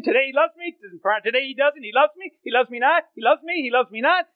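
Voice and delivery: lilting up-and-down tulip chant; sing-song petal counting. Pretend. Preacher mimics a doubter plucking petals, lilting. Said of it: "The old tulip illustration".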